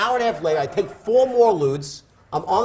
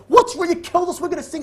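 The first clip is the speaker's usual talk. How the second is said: high, shrill-free mock panic, much higher; panicked wife; 13 semitones higher, 4 dB louder than usual. Wife crying to husband in the storm, high mock panic. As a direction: imitate his frightened wife squealing. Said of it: "and she goes".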